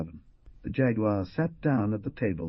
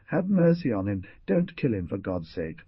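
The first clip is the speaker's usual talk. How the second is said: pleading. Acted. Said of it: "clutching her hands together".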